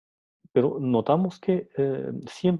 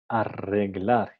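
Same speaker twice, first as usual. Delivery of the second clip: arreglar said slowly; drawn-out arreglar, syllable by syllable; example word; 3 semitones lower, much slower than usual. Shown as a demonstration. Teacher reading example word arreglar, slow and careful. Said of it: "Por ejemplo, palabras como".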